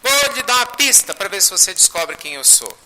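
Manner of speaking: high, insistent teasing announcement; eager hinting. Retold or imitated. Spirit seeing Chico cannot guess, eager hinting. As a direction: call out the offer brightly, pitched well up. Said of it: "falou assim".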